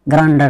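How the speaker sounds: ग्रांडर said with "d" in place of "j"; students' mispronunciation. Retold or imitated. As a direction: imitate the misreading ग्रांडर, ending in "dar". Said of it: "ये उच्चारण गलत होगा". (छात्रों जैसा ग्रांडर, "ज" की जगह "ड")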